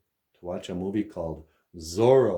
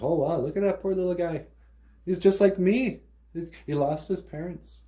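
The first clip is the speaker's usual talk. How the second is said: pitying voice; 9 semitones higher than usual. Retold or imitated. Bruce pities the orphan.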